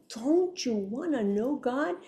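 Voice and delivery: slow, coaxing inner voice; soft little voice. Acted. Inner voice nudging her toward God, soft coaxing. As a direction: draw the question out gently. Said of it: "that little soft voice would say".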